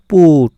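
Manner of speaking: পুট with a clearly held "oo" vowel; careful pronunciation. Shown as a demonstration. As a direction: model the u in পুট for learners. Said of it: "ভালো করে উচ্চারণটা দেখো". (পুট-এর উ স্পষ্ট করে উচ্চারণ)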